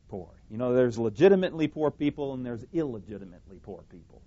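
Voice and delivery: normal talking voice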